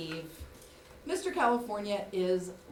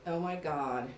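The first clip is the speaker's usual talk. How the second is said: hushed horror; 9 semitones lower, 8 dB quieter than usual. Retold or imitated. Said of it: "And I realized".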